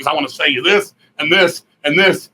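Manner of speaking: fast pushy street seller voice; hustler sales pitch. Retold or imitated. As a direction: rattle it off like a hustler.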